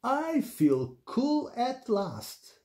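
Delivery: high, very slow, pleased pig voice; relieved storybook delight, no real laugh; contented chuckle. A narrator's reading. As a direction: stretch it out with mild amusement. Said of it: "she chuckled".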